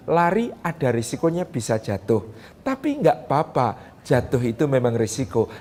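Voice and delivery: soft, low and encouraging; gentle praise to child. Shown as a demonstration. Mother calmly praising her fallen child, soft and reassuring. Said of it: "ucapkan selamat, jabat tangannya".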